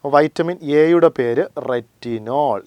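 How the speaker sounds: slow, careful dictation for students to mark; a teacher dictating a fact slowly. Shown as a demonstration. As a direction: spell it out slowly so they can write it down. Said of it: "അപ്പൊ നമുക്കൊന്ന് അടയാളപ്പെടുത്തിപ്പോ".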